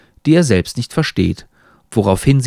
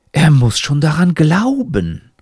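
lightly voiced talking hat, higher; raised, hint of a character voice; admonishing hat; 4 semitones higher than usual. A narrator's reading. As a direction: answer as the tutoring hat, pitched up. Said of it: "antwortet Hut".

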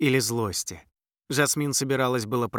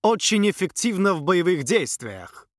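proud prince; 6 semitones higher, 3 dB louder than usual. A narrator's reading. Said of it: "гордо произнёс принц".

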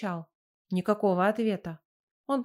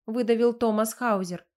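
plain reading voice

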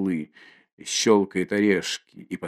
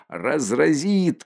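alarmed cry; 4 semitones higher, slower than usual. Acted. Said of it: "кричат кругом".

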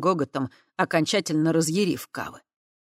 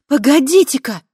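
high, loud call to stop; outcry; 10 semitones higher, 11 dB louder than usual. A narrator's reading. Kava crying out for the crowd to wait. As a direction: cry out to halt them. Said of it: "вскричала она".

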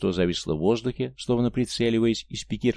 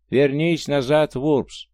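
slow, higher and louder croaking chant; a slow croaked command, louder; croaking messenger voice; 5 semitones higher, 5 dB louder, much slower than usual. A narrator's reading. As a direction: hammer the order into his mind. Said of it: "квакающий негромкий голос".

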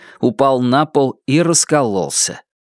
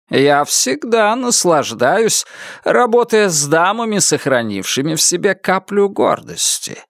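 remembered character voice; 5 semitones higher than usual. A narrator's reading. Remembered words of another character.

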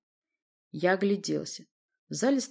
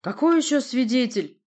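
high, loud indignant question; seething; 7 semitones higher, 7 dB louder than usual. A narrator's reading. Prince challenges talk of a witness, seething. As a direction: boil over in disbelief. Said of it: "закипел Портий".

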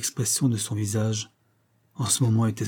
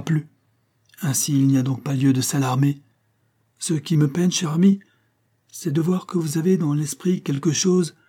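worried husband; 4 semitones higher than usual. Acted. Husband voiced, worried and tender.

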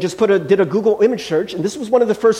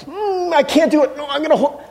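dog's voice; 8 semitones higher than usual. Retold or imitated. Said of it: "he's like".

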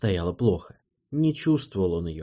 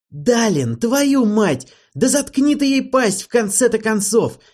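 higher and louder, roaring at the gnome; furious yelling; 9 semitones higher, 5 dB louder than usual. A narrator's reading. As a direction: bellow it, fed up and livid. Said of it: "начал орать". (яростный крик, выше и громче)

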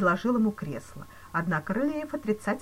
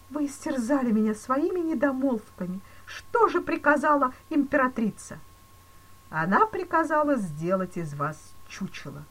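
higher, louder pleading banker; desperate banker; 6 semitones higher, 5 dB louder than usual. A narrator's reading. Banker begging the police chief for mercy, desperate. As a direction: beg in rising despair.

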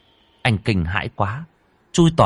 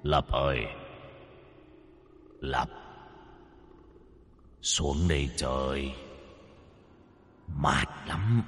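much lower, soft eerie ghost voice; deep ghostly call; 7 semitones lower, 11 dB quieter than usual. Acted. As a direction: call him down low and hollow like a drowned spirit. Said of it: "vang lên tiếng gọi ồm ồm". (giọng ma ồm ồm gọi)

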